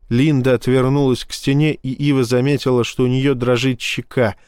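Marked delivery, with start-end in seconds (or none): none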